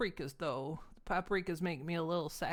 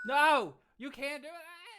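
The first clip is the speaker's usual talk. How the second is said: higher, hammed-up desperate cry; higher playful panicked cry; mock panic; 8 semitones higher than usual. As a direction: plead in pretend alarm.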